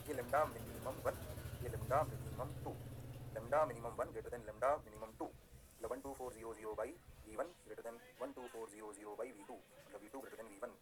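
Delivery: slow and soft, word by word; slow deliberate explaining. Shown as a demonstration. Teacher walking students through the graph, slow and soft. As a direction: spell it out slowly for the class. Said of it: "ध्यान से देखो".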